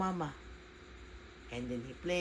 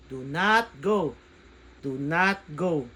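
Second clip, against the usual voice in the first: pleading; 10 dB louder, slower than usual. Acted. Child pleading, loud slow.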